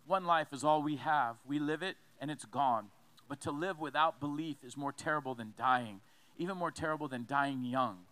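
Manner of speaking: low-pitched, deliberate reading; measured, grave quotation; solemn quote reading. Acted. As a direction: read the quote out with weight, clause by clause. Continues reading the martyr's quote.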